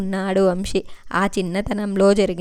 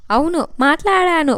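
timid, afraid; 7 semitones higher than usual. A narrator's reading. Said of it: "భయపడుతూ బెరుగ్గా".

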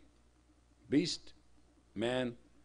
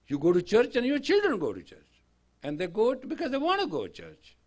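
emphatic retold plea; 9 semitones higher, 13 dB louder than usual. Retold argument with rich man.

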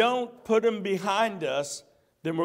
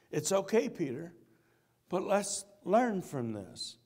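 gentle; 4 dB quieter than usual. Acted. Jesus speaking to Peter.

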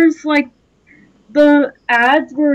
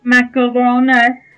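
funny creepy voice. Acted. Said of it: "creepy voices".

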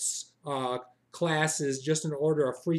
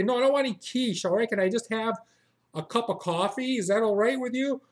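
annoyed refusal; 4 semitones higher than usual. Retold or imitated. Customer snaps back.

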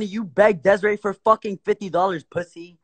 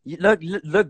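tripping over the words; stammering, restarting the sentence; stuttering. Real, not acted. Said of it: "Bro, why you stuttering?".

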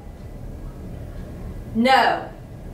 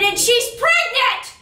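higher, drawn-out outburst; exasperated reveal; 4 semitones higher, slower than usual. Acted. Boss telling teacher about the dad's daughter, exasperated. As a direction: raise the pitch and stretch the shocking word.

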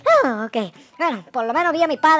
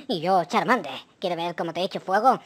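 low creature dad taunting; Charmander voice; 8 semitones lower than usual. Acted. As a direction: threaten fire as a playful lizard. Dad as Charmander threatens fire.

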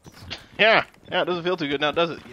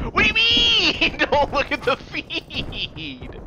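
incredulous repeat; 3 semitones higher, slower than usual. Real, not acted. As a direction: echo the line back in disbelief. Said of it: "repeats the quote, much higher".

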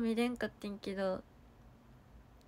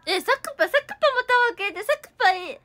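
higher, louder, quick gush; excited thanks; 12 semitones higher, 11 dB louder, faster than usual. Real, not acted. To a viewer who sent a gift, a high excited gush. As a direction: squeal it out fast, overjoyed.

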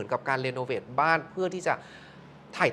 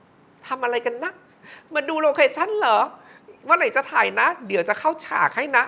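put-on imagined child ghost; 8 semitones higher, 5 dB louder than usual. Ghost boy in the photo asking the crew, high childlike voice. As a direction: sing it out like a curious little boy. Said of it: "มองดูเหมือนประมาณว่า".

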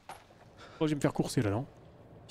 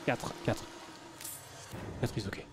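whispered under his breath, much softer; whispered counting; 4 semitones lower, 9 dB quieter than usual. Real, not acted. Gamer counting items to himself, whispered.

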